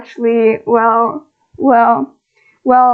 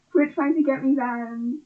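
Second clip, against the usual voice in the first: laughing; 2 semitones higher, 10 dB quieter than usual. Real, not acted. Laughing while protesting chat.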